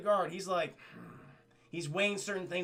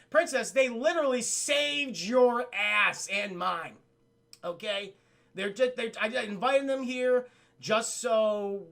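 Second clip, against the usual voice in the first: slow, emphatic acted protest; exasperated captain; 3 semitones higher, 5 dB louder, slower than usual. Captain defending the gargoyles to the princess, exasperated. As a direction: raise the voice, pleading the point. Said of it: "And she's like".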